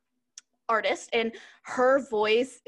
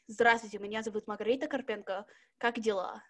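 deeper Russian voice; 3 semitones lower, 4 dB quieter than usual. Shown as a demonstration. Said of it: "I do go deeper".

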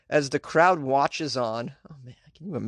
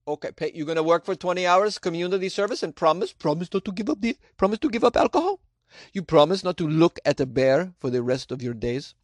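mock official; 4 semitones higher than usual. Mocking official demanding promise.

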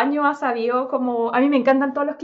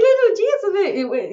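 put-on "Little Jesus" slow and higher in a Colombian accent; 7 semitones higher, much slower than usual. Podcaster quotes Gloria in a Colombian accent. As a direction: say "Little Jesus" like Sofía Vergara would. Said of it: "Y ella dice".

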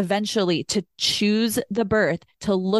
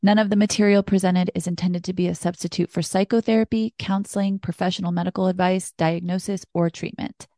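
even, measured announcement; disclaimer read. A narrator's reading. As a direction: read the formal notice evenly. Reads the show's disclaimer.

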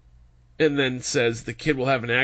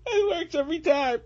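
sarcastic; 13 semitones higher, 4 dB quieter than usual. Pretend. Sarcasm after fake laugh.

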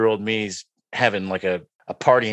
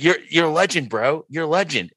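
fanboy gushing; 6 semitones higher than usual. Retold or imitated. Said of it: "I'm like".

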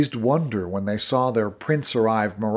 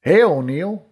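shouted greeting; 4 semitones higher, 4 dB louder than usual. A narrator's reading. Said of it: "shouted over the sound".

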